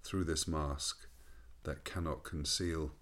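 slow, measured poetry reading; poem recitation. Acted. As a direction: recite it slowly and reflectively. Reads his own poem.

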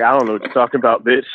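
fast, laughing dismissal; laughing brush-off. Retold or imitated. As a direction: rattle it off fast through a laugh. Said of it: "I was just like".

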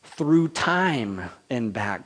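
slow it down on through time and back; God's loving declaration. Retold or imitated. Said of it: "God says to us".

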